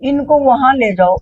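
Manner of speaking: slow, high, loud instruction; Baba Ji. Retold or imitated. Guru telling Vijay where to take guests, calling slowly. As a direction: imitate a guru sending guests along. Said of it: "इतने में विजय को कहते हैं".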